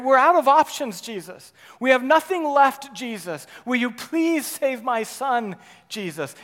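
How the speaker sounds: loud, pleading cries to Jesus; desperate plea. Acted. Father crying out loudly to Jesus, desperate. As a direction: cry out for your child. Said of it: "Can you hear the desperation in his voice?".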